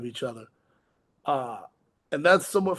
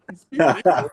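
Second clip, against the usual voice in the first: "He speaks English." called out louder; exasperated correction; 6 dB louder than usual. Retold or imitated. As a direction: set the translator straight, loud and flat. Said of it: "I'm like".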